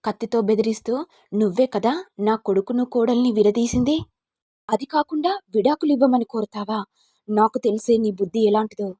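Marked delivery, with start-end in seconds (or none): 1.3-8.9 mildly raised fierce threat; threatening. Acted. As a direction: threaten her with the knife in hand. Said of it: "ఉగ్రరూపంతో కత్తిని తీసి కత్తితో బెదిరిస్తూ".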